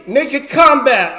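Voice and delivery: Naked Combat drawn out, big and high; ring announcer call. Retold or imitated. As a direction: announce the name like a fight MC. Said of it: "we say".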